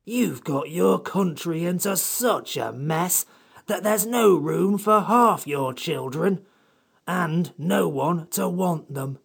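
high-pitched, testy creature scolding; irritated. Acted. Samiad blaming them for their country's mess, irritated. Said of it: "said the Samiad in irritated tones".

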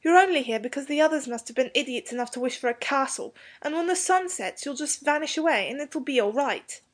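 put-on high-pitched boy pleading his case; desperate. A narrator's reading. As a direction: explain desperately as a young boy. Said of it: "said Robert desperately".

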